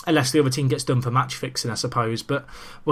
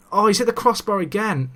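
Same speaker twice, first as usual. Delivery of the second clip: disbelieving exclamation; 7 semitones higher than usual. Real, not acted. Second crossbar hit.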